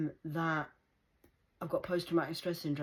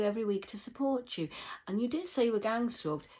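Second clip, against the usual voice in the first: lightly voiced caring worker. Showing how the support worker should sound. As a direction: play the ideal worker gently. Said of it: "imitating what worker should say".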